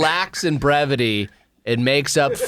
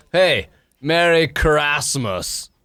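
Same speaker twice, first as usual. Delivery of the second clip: slow greeting; much slower than usual. Shown as a demonstration.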